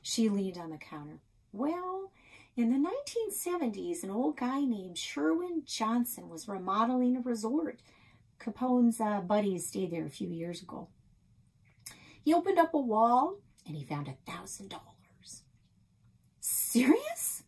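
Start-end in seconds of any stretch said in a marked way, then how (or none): 1.5-15.4 lightly voiced chatty older woman. Nan character voiced. 16.4-17.4 high amazed question; surprised. Acted. Girl amazed at the story.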